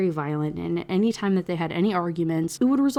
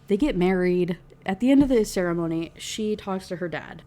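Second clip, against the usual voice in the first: normal talking voice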